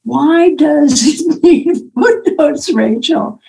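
slow, patient question; very slowly. Retold or imitated. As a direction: draw each word out gently. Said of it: "she says very slowly".

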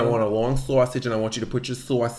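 lightly mocked New Jersey accent; a hint of put-on Jersey. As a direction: imitate a Jersey girl's vowels. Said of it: "That feels more Jersey to me".

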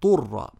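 طر cleanly voiced after a break; separate ṭāʾ. Shown as a demonstration. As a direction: land the ط of طر on its own. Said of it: "ثم انتقلنا للطاء".

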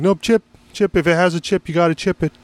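high, singsong cashier insisting; mock insistent cashier. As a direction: parrot the stubborn cashier. Cashier voiced in story.

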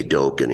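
"Dokken" with a long O, DOKE-en; first vowel of "Dokken" as in "oak"; mispronounced surname. Shown as a demonstration. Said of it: "He'd always correct them".

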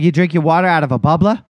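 badly faked Boston accent; hammed-up Boston with dropped r's; terrible Boston accent. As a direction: quiz them like a mock Bostonian. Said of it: "in a terrible Boston accent".

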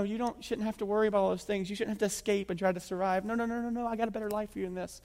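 soft, soothing reassurance; hushed, tender reassurance; gentle mock whisper. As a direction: imitate God calming someone quietly. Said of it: "God whispering in their ear".

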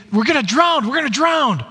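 mock panic. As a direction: imitate frightened disciples waking Jesus in a storm. Disciples waking Jesus in storm.

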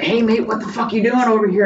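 high, loud mock Scottish lads' shout; a retold pub challenge in a Scottish accent. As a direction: imitate the Scottish mates yelling across the pub. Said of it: "Their accent gets harder to hear".

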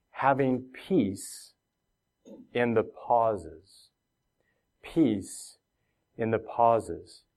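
each word of "having peace in the pauses" laid down slowly with falls; slow title announcement. Shown as a demonstration. Pastor announcing his sermon title, slow and deliberate. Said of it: "what I title this message as".

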